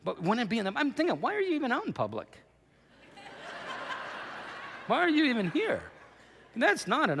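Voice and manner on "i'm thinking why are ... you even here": incredulous, stressing are. Real, not acted. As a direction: lean hard on are in disbelief. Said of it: "disbelief at the lady".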